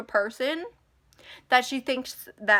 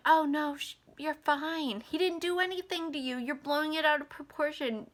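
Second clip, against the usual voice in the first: high, softer mock-soothing voice; dismissive nana; 4 semitones higher, 4 dB quieter than usual. Imitating grandma saying you're fine, dismissive. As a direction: brush it off in a high, soft voice.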